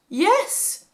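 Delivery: high, loud cry of relief; relieved cry. A narrator's reading. Joseph answers the priest with a relieved cry. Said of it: "cried Joseph".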